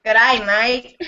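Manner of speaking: playful attempt at Australian; Australian accent. Shown as a demonstration. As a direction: put on an Aussie accent, amused. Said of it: "let me hear Australian".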